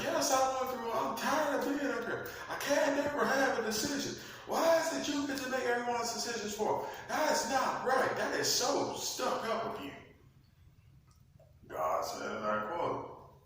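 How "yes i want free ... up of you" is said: high, loud, fast indignant whine; angry whiny Lucifer. Acted. Lucifer snapping at God, high indignant whine. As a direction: spit it out like a sulking rebel. Lucifer demanding free will.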